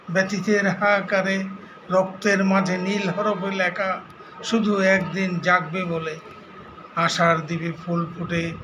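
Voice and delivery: measured recital, phrase by phrase with pauses; poem recitation. Acted. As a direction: recite the verse line by line, deliberately. Recites his brother's poem. (কবিতা আবৃত্তি, থেমে থেমে)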